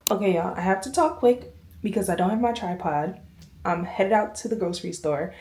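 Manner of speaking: talking while chewing gum; words around a piece of gum. Real, not acted. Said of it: "I am chewing gum right now".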